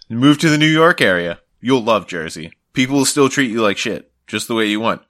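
hammed-up local TV spot; mock ad pitch. Mock ad voice urging Bostonians toward Jersey. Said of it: "It was like".

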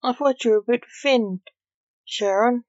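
cheeky taunt, briskly delivered. A narrator's reading. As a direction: needle him, lifting the name at the end. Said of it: "Jack taunted".

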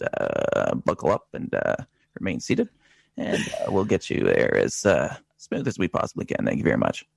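calm captain's cabin announcement; lightly voiced pilot over the intercom. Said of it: "your best pilot voice liftoff".

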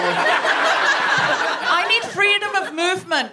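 crackling mic, voice breaking up; clipping distorted mic. Real, not acted. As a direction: loose connection distorting the mic. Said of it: "A loose connection".

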